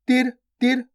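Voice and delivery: short i in तिर, quick and unstretched. Shown as a demonstration. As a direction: say तिर with a brief, clipped vowel. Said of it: "छोटी ई की मात्रा में". (तिर में छोटी इ, बिना खींचे)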